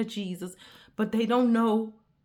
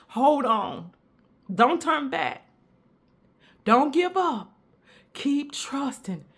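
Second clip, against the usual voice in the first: preaching at full force. Acted. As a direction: preach it with rising fire. Preaching builds up.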